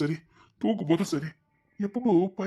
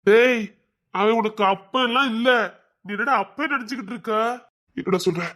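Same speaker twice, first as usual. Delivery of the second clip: higher, louder indignant shouting; angry outburst; 4 semitones higher, 4 dB louder than usual. Acted. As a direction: rage at calling him a father. Angry at the idea of such a father.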